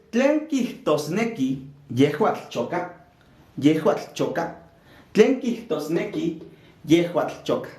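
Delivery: slow, measured, word by word; slow teacher's modelling. Shown as a demonstration. Teacher asking the class what the phrase means, slow modelling. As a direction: space the words out for learners.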